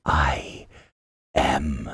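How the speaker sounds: low whisper of a magic orb; hushed orb voice. Acted. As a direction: whisper the name, low and eerie. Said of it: "and says".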